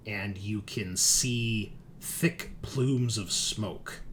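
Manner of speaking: slow, measured narration; game master scene-setting. Acted. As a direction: set the scene slowly, with drawn-out words.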